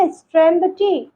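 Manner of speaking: slow, deliberate teacher model sentence. Shown as a demonstration. Teacher modelling a sentence slowly for learners. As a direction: say it slowly so students can repeat. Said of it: "तो हम बोलेंगे".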